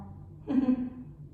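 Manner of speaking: brief, light chuckle; a little laugh while holding the pose; small chuckle. Real, not acted.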